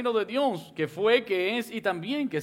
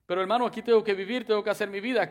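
quick, raised protest of a doubting believer; imagined objector; 4 semitones higher, 4 dB louder, faster than usual. Pretend. Preacher voicing a churchgoer who objects, quick raised protest. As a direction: push back fast, like a worried churchgoer.

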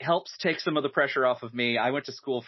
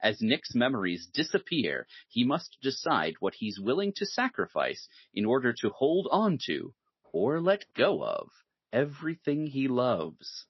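movie voiceover. Acted. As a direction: read the synopsis like a movie trailer narrator, drawing out the final phrases. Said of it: "That's a really good movie voice".

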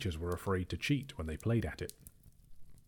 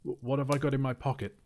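higher, fast, stammered repeat; said louder; 6 semitones higher, 3 dB louder, faster than usual. A narrator's reading. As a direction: press the question harder and quicker. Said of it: "he said louder".

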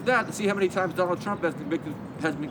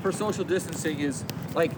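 muffled behind a face mask; talking through a cloth mask. Real, not acted. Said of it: "can you hear me with this mask".

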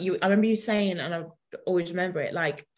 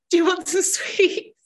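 teasing offer; 10 semitones higher, 5 dB louder, slower than usual. Retold or imitated.

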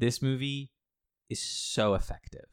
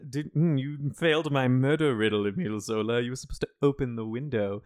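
mock Riddler; 3 semitones higher, 4 dB louder than usual. Improvised Riddler taunting Zola.

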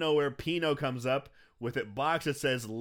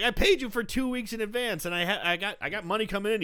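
high-pitched mock pleading protest; protesting tenant; 7 semitones higher, 3 dB louder than usual. Tenant defending himself to the landlord, high protest. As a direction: argue back in a higher voice.

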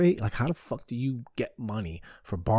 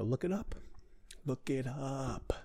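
soft dare; 3 semitones higher, 11 dB quieter than usual. Real, not acted. Daring listeners to check.

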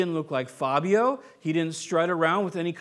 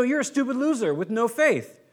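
mock harsh scolding; 4 semitones higher than usual. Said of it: "He didn't go".

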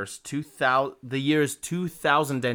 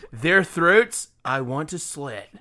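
dramatic reading; 2 semitones higher, much slower than usual. Acted. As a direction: build it up, then land slowly. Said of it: "as dramatically as I possibly can".

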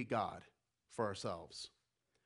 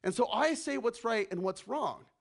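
puffed-up bragging, louder; strutting boast; 3 semitones higher, 3 dB louder than usual. Retold or imitated. Empire brags about its power, strutting and boastful. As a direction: boast like a swaggering tyrant. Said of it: "empire goes around strutting its stuff and says".

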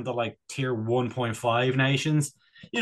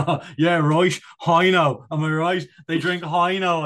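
mock rugby lad; 3 semitones higher, 6 dB louder than usual. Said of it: "without someone being like".

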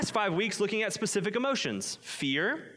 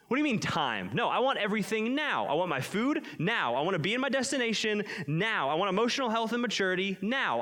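mildly demanding, punching each "now"; mock impatience; 4 semitones higher than usual. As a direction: act out someone who wants it all immediately. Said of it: "with a need for instant".

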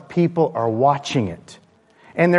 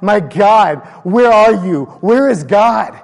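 loud, high cry for God; calling out desperately; 6 semitones higher, 7 dB louder, slower than usual. Acted. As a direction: call out like a desperate searcher, full-voiced. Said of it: "he keeps calling out".

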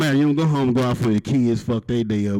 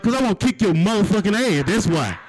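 mock challenge; 7 semitones higher than usual. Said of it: "I was like".

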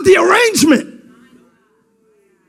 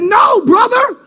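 pleading refusal; slower than usual. Acted. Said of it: "She said".

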